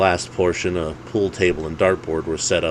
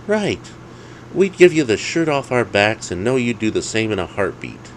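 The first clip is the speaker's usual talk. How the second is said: higher, earnest buddy voice; agreeing friend voice; 5 semitones higher than usual. Acted. Alex assuring Dave of loyalty, higher voice. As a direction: back up your friend loyally.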